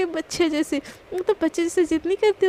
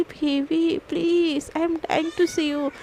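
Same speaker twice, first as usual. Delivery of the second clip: slow, drawn-out coaxing; wife slowly coaxing her husband in mock flirt; flirty teasing; much slower than usual. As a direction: stretch every word to tease him.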